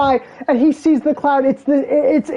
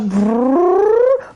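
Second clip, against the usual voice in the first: cannon powering up; 3 semitones higher than usual. Retold or imitated. Imitates cannon after button press.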